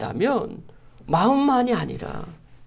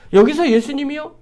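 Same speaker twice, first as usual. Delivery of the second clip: ordinary talk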